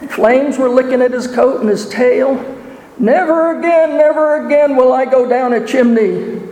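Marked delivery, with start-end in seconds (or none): 3.0-6.4 anguished wolf cry. Acted. Burned wolf howls fleeing.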